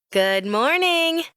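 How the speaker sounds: high, drawn-out sing-out greeting; bright trill. A narrator's reading. Employee greeting boss on arriving at the bakery, trilled high. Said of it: "I trill".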